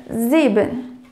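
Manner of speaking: sieben with a Z start and a long E, "ziiben"; teaching pronunciation. Shown as a demonstration. Teacher models sieben slowly for learners. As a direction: stretch the E in sieben a little. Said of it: "você prolonga um pouco o som do E".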